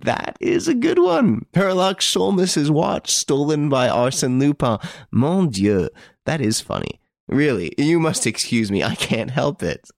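high gleeful voice on the edge of laughter; helpless amusement. A narrator's reading. Devan apologises to the robbed detective, helplessly amused. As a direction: struggle to speak through hilarity. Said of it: "He roared with laughter, unable to control himself".

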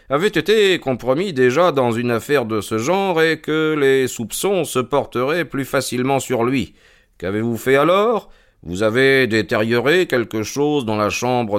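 lightly voiced, self-assured investigator; measured detective's statement; composed detective Holmes. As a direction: lay out the case with calm authority.

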